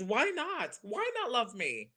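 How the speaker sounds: loud, high, playful self-love; high-pitched, laughing boast; exuberant challenge. Acted. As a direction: proclaim it boldly to friends, breaking into a laugh. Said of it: "I always say to my friends".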